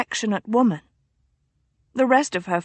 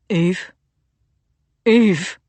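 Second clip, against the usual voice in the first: put-on calling out louder, scared like a lost boy; frightened little boy; 2 semitones lower, 5 dB louder than usual. A narrator's reading. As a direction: cry the name out anxiously, rising in alarm. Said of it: "like a frightened little boy".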